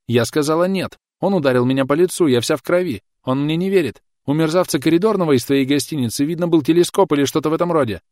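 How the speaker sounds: high, loud frantic pleading; frantic warning through sobs; panicked shrieking. Acted. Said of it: "не дослушав её панические визги".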